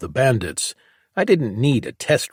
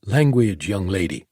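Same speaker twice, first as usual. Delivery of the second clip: put-on Mama G's accent. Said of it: "adopted Mama G's accent".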